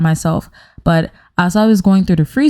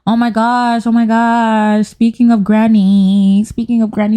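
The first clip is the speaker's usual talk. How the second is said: mock-excited singsong; 2 semitones higher than usual. Teasing next story about Granny.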